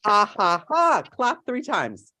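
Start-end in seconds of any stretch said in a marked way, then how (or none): 0.0-1.0 jolly ho ho ho. Shown as a demonstration. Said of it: "repeat after me".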